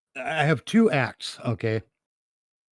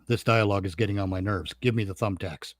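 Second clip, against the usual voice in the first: emotionless villain; 4 semitones lower than usual. Retold or imitated. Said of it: "there's no emotional inflection in his voice".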